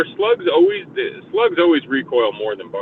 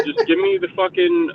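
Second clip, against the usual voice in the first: exasperated self-quote; 13 semitones higher than usual. Retold or imitated. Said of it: "I'm like".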